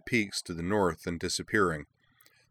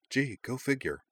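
mock-innocent, high sarcastic lilt; 7 semitones higher than usual. Wakaba teasing Hikaru in the huddle, a light sarcastic lilt. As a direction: tease him with fake surprise.

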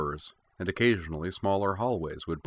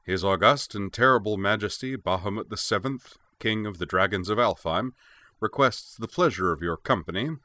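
grand, self-important royal announcement; pompous voice. Acted. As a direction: read it like a stuffy herald. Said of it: "read from it in a pompous voice".

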